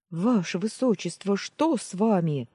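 alarmed maid calling out; frightened girl. Acted. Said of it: "испуганный девичий голос". (испуганный девичий голос)

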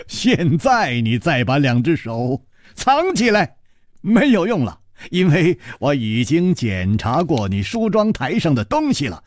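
gleeful, rising taunt; laughing triumph. Acted. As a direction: press the point with a pitch that climbs in triumph. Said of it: "楚留香笑着说".

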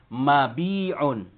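mabi'un with long bii, then a throaty 'un; contracted reading. Shown as a demonstration. Teacher giving the second example, mabi'un with long ii. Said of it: "Berarti menjadi".

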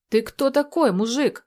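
put-on loud, high drunken roar; roaring challenge. Drunk Tolya challenges Vadim, loud roaring shout. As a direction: bellow at the stranger before charging. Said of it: "взревел он".

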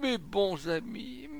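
loud, high cry of despair; acted high-pitched lament; anguished wail. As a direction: wail and plead, drawing it out. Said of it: "en tordant ses bras".

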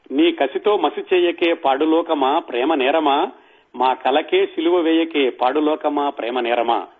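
slow, measured reading of the lyric; slow poem recitation. Acted. Speaker reciting Athreya's last song, slow and measured. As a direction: let each line of the verse land slowly.

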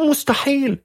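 high, desperate cry of disbelief; a frantic mother repeating it can't be; mother screaming. A narrator's reading. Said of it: "فصرخت والدتها". (صرخة أم يائسة بصوت حاد)

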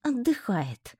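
whispered through clenched teeth; muttered through teeth. A narrator's reading. About the unconscious roommate, a cold whispered mutter. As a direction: hiss it coldly, barely voiced. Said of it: "процедила я".

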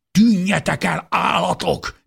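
high, loud roar at attackers; furious yell. A narrator's reading. Defender with pitchfork to the attackers, furious yell. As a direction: yell to drive them off. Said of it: "üvöltötte".

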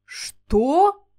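high startled question; a dumbfounded what; stunned. A narrator's reading. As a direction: blurt it out in shock. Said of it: "ошарашенно переспросил Грей".

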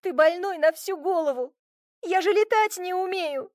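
high, indignant scolding; outraged. A narrator's reading. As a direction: scold him for throwing her. Furious girl scolding from tree.

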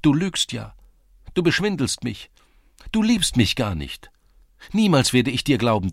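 high, loud accusations in short bursts; hurt young woman crying out; reproachful outcry. A narrator's reading. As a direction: fling each accusation out, pitched high. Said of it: "rief Hanja aus".

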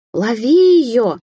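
loud, high, drawn-out yell. Acted. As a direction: shout the order after her. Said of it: "завопила Алисия".

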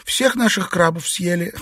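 high playful complaint; mock outrage over the crabs; mild cry. A narrator's reading. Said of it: "вскричала Юань-Ян".

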